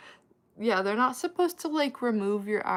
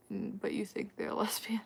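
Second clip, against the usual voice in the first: whispered aside; 6 dB quieter than usual. Real, not acted. Aside about assuming someone's lesbian.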